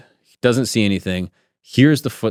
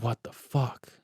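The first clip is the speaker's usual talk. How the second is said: imitated stunned mutter, much softer; stunned hushed reaction; 3 semitones higher, 11 dB quieter, slower than usual. Friend hearing a voice in his head, stunned and hushed. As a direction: act out quiet disbelief under the breath.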